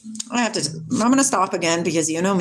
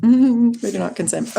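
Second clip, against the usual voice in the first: louder, stressing we; firm louder declaration; 3 semitones higher, 4 dB louder than usual. Shown as a demonstration. Teaching her viewers to refuse, said with a laugh and firmly.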